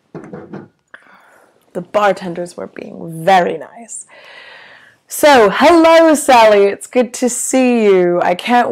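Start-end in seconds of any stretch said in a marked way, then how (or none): 0.1-4.1 slow, secretive whisper; conspiratorial whisper. Real, not acted. Whispered aside about hustled tequila.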